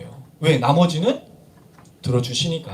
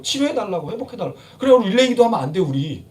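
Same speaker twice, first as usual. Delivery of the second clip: usual speaking voice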